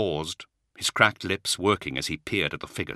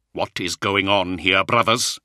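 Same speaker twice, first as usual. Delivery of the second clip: authoritative; 2 semitones higher, 5 dB louder, slower than usual. Acted. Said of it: "regaining some of its strength and authority".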